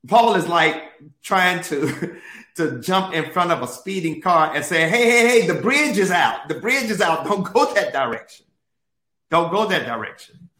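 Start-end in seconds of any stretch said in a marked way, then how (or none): 4.9-10.5 high, loud urgent warning; urgent warning shout. Pretend. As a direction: call out to stop a speeding car. Warning a speeding car.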